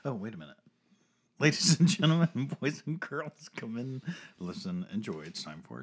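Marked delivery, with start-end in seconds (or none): 1.4-5.2 booming ringmaster announcement; grand entrance announcement. Pretend. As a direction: hype up the crowd. Podcast opening showman intro.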